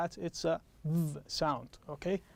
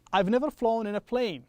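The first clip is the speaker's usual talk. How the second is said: model sentence for repeating; 3 semitones higher, 3 dB louder than usual. Shown as a demonstration. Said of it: "One more time".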